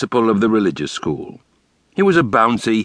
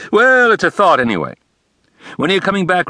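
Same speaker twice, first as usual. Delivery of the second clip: higher, eager caller on the phone; Gorfinkel's voice; 12 semitones higher, 4 dB louder, faster than usual. A narrator's reading. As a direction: play the pushy, friendly father.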